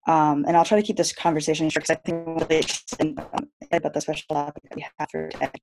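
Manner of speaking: choppy breaking-up call audio; words cutting out on a bad connection; glitching audio. Real, not acted. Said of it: "audio is breaking up a bit".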